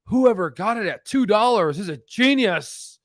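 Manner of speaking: imagined amazement. Retold or imitated. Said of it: "when everyone's like".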